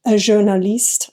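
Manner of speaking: a light French accent on journaliste. Real, not acted. Slipping into a French accent while bragging about press perks. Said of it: "I don't know why I keep going into a French accent".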